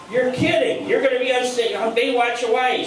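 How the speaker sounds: high-pitched happy disbelief; retold amazement. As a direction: act out being thrilled by a friend's news. Reacts to Stacy's big news.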